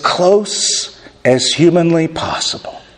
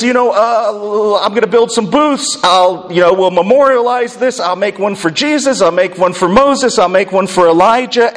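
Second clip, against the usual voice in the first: mildly flustered, higher-pitched rambling as the disciple; nervous babbling; 4 semitones higher than usual. Retold or imitated. Preacher voicing Peter fumbling for something to say, nervous babbling. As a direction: imitate Peter babbling, higher, stumbling over filler words. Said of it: "as Peter is babbling in his fear".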